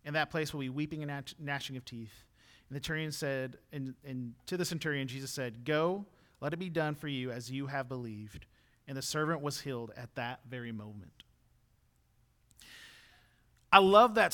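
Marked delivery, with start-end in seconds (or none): 0.0-11.2 measured, subdued Bible reading; scripture reading. A narrator's reading. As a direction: read the passage evenly and softly. Reads scripture aloud.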